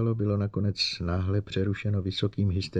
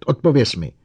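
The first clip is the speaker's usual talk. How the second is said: angry demand; 5 semitones higher, 7 dB louder than usual. Acted. Bogert roaring at robot.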